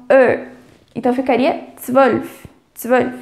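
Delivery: Ö like E with rounded lips, zwölf as "tsvölf"; teaching pronunciation. Shown as a demonstration. Teacher demonstrates the Ö in zwölf. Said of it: "som do E com biquinho".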